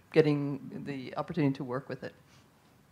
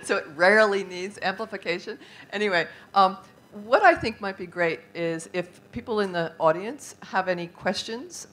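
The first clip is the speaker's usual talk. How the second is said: loud voice; 3 semitones higher, 6 dB louder than usual. Real, not acted. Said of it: "I've got a very loud voice".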